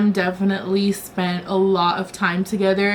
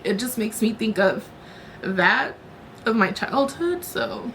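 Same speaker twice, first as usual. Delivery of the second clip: catching breath midword; 4 dB quieter than usual. Real, not acted. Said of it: "I'm sorry, I'm crying".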